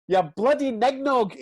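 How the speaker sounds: high, loud, drawn-out imitated yell; re-enacted touchline outburst; mock old-man shouting. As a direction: mimic an old heckler yelling slowly. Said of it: "he starts shouting".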